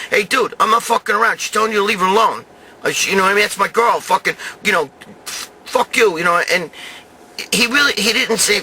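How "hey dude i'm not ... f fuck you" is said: raised, heated warning, higher; retold angry yell. To Franco who won't leave his girl alone, a heated raised warning. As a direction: tell the creep off hotly, voice up. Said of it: "I was telling him".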